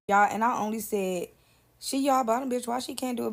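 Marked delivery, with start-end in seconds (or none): 1.8-3.3 smart-aleck. Retold or imitated. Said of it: "Because I was being smart".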